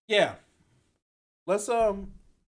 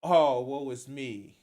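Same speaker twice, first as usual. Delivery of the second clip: slow, drawn-out mock self-pity; slow sarcastic woe-is-me; mock whiny lament; slower than usual. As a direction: parody a whiny complaint. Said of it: "it's just whiny at this point".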